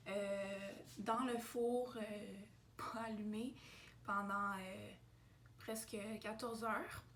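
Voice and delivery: just woke up, vocal fry; morning voice. Real, not acted. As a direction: fresh out of bed, froggy voice. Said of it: "Désolée pour ma voix du matin".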